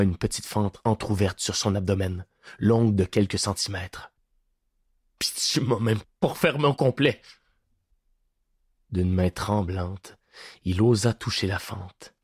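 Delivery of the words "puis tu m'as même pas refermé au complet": complaint. A narrator's reading. Prisoner complains of wound.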